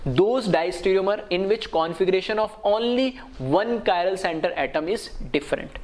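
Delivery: slow, deliberate reading of a definition; measured teacher dictation. Real, not acted. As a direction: read it out carefully for students.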